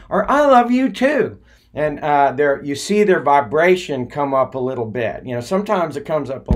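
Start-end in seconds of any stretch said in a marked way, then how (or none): 0.3-1.4 affectionate reply. Retold or imitated. Stranger answers affectionately.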